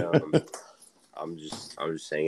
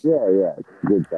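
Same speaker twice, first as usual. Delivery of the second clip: muffled, bad-signal sound; hydrophone underwater voice; 6 dB louder, faster than usual. Real, not acted. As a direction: talk like you're underwater. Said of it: "you're, like, underwater".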